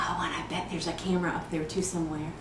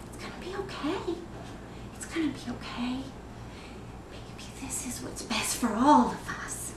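soft, lifted, near-whispered reassurance; hushed self-soothing; 3 semitones higher, 6 dB quieter than usual. Acted. Mother's own thoughts while harming her child, hushed reassurance. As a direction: soothe softly, almost under the breath. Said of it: "And I was thinking".

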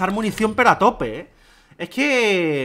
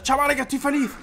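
mock happy; 9 semitones higher than usual. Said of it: "Me pongo a chillar".

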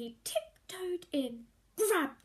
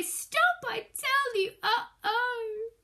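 higher and louder, desperate; desperate order; 9 semitones higher, 8 dB louder, slower than usual. A narrator's reading. Greedy boy orders the pot to stop, desperate. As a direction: command it in panic.

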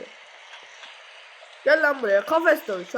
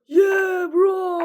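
korkulu; 9 semitones higher, 6 dB louder than usual. Real, not acted. Scared, crying sound heard.

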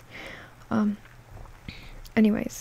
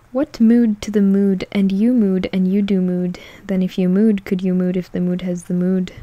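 loud mock rant; hammed-up shouting; 2 semitones lower, 6 dB louder than usual. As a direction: bellow the nonsense at full volume. Shouting nonsense meme.

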